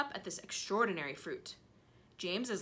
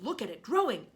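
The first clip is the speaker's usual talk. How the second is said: excited cry; 3 semitones higher, 6 dB louder than usual. Acted. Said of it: "Aunt Spiker cried".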